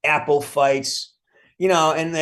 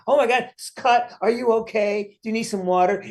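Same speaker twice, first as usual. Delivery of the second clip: higher, hammed-up fretting over a tiny cut; mock fussing concern; 10 semitones higher than usual. Mocking the crew who fuss over his cut, high mock concern. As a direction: play the worried helper, overdone and high.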